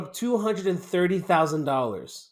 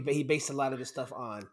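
far from the microphone; 3 semitones lower, 9 dB quieter than usual. Real, not acted. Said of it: "why do you sound so far away from the microphone".

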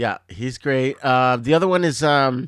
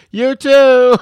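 squeaked-out high "you too"; silly high reply; 12 semitones higher, 12 dB louder than usual. Retold or imitated. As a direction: chirp it back, high and loud. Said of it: "the cab driver drops you off".

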